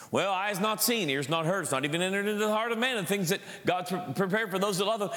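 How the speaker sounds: rattled-off, offhand recitation; rote quoting. Retold or imitated. Preacher mimics people quoting the verse again and again, rote. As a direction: toss the verse off like a worn saying. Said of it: "I've heard this quoted again and again".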